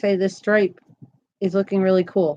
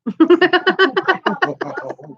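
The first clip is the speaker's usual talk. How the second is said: bright laugh; 8 semitones higher than usual. Real, not acted. Laughing at own joke.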